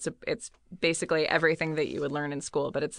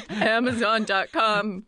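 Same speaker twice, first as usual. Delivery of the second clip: choked-up voice; 3 semitones higher, 4 dB louder, slower than usual. Retold or imitated. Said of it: "sounds like you're choking up".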